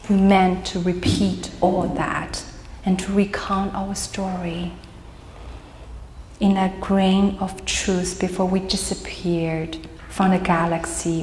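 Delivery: deliberate poetry reading with pauses; poem reading. Acted. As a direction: read verse line by line, letting it quieten. Reads own poem aloud.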